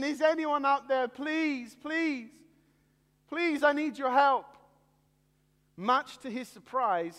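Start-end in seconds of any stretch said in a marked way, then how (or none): 0.0-4.5 higher, pleading cry for help; panicked shout. Acted. Man slipping from the branch, begging for help. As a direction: beg anyone to hear, panicking. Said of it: "he shouted again".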